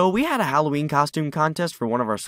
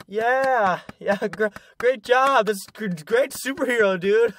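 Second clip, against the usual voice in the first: sarcastic; 8 semitones higher, slower than usual. Pretend. Mocking reaction to Goat Boy.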